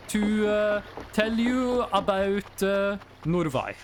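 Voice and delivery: put-on slow, pompous Norwegian-accented English with hesitations; a hint of a stiff Norwegian politician at the UN. Mocking Norwegian politicians for chat, accented English. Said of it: "Norwegian politicians, when they speak English, are like".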